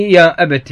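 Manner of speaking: يا أبت said ya abati, final t with a short i; ta with kasra. Shown as a demonstration. Teacher shows students the Quranic kasra reading, clear demo. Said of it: "تاء مكسورة".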